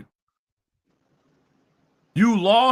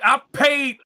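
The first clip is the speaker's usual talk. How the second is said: loud, high mocking whine of a beaten rival; hammed-up mock rant, higher and louder; mocking a rapper; 6 semitones higher, 4 dB louder than usual. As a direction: yell it like a sore loser crying to himself. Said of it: "You're like".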